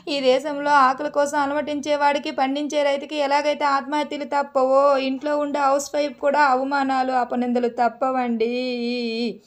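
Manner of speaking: lightly hammed-up tragic housewife lament; melodramatic speech. Wife puts on a melodramatic lament for her husband. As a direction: play the wronged wife with mock grandeur, dragging the last line. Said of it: "Oscar performance".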